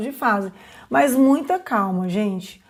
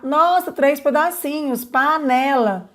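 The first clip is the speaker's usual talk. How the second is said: higher, delighted, slowing on the last word; delighted praise; 3 semitones higher than usual. Shown as a demonstration. Teacher celebrating the child's count, delighted.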